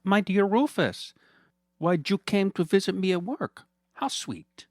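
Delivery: high, sugary mock-friendly villain voice; smug villain Fernando. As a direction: purr at him like a gloating rich villain.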